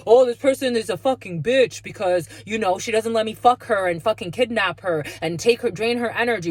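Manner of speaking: loud sneering put-on voice of a gossip; mocking the backstabber. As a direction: ham up the two-faced person talking trash. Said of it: "it's like".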